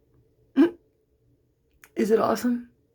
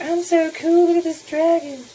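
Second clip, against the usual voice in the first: imitating a proud little kid, higher and louder; 8 semitones higher, 5 dB louder than usual. Kid bragging to friends about a temporary tattoo, higher and louder. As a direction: brag like a kid showing off a tattoo. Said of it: "were like".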